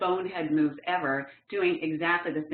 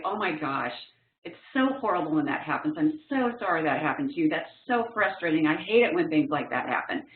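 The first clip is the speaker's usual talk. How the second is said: sympathetic; 2 semitones lower than usual. Shown as a demonstration. To a friend who lost his bag, gently sympathetic. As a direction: comfort him, share his frustration. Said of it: "The thing he needed from me the most".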